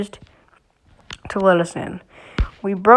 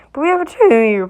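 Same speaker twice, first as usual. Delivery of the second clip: voice crack; 4 semitones higher, 4 dB louder than usual. Real, not acted. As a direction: voice cracking mid-sentence. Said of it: "Sorry, voice crack".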